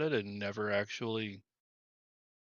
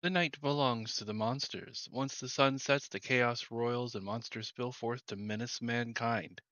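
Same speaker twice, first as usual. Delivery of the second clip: story narration. Acted. Streamer reading the game's intro text to viewers, measured narration. Reads game narration aloud.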